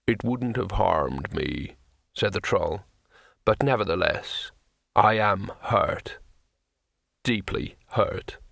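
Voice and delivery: lightly voiced troll, sadly dignified; hurt troll. A narrator's reading. Troll to the wizard who swung at him, slow and wounded.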